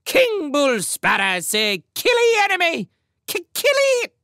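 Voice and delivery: piercingly high bird screech, rising to frenzy; shrieking command. A narrator's reading. Sparrow king orders his warriors to kill, shrieking. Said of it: "he shrieked".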